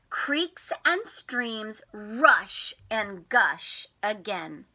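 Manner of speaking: lightly animated read-aloud; reading to children. A narrator's reading. Teacher reads the spring book to the class, gently. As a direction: read it gently to little ones.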